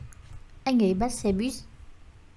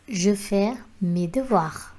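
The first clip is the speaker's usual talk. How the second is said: slow model sentence; slower than usual. Shown as a demonstration. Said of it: "slow model sentence".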